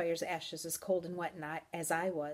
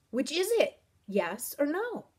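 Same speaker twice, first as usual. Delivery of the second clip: higher, pressing question; exasperated, raised-pitch questioning; impatient demand; 8 semitones higher, 4 dB louder than usual. Acted. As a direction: press hard for a straight answer. Impatient for a straight answer.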